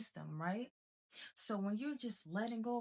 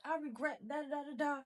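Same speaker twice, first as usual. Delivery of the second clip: higher, whiny voice of someone stuck in regret; lightly hammed-up victim voice; mock regretful whine; 5 semitones higher than usual. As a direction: mimic a self-pitying sigh of regret. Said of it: "you just walking around like".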